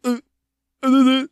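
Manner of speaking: loud high taunting interruption; Jake Paul mocking. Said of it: "Jake Paul would just cut him off, be like".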